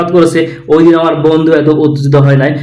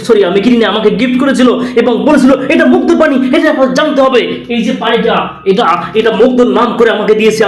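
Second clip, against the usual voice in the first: pitched-up breathless anchor voice; mock excited reporter; 3 semitones higher than usual. Parody reporter hyping a bottle of water, mock excitement. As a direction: hype the water story like a sensational reporter. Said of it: "এইটা তো ভালোভাবেও বলা যায়".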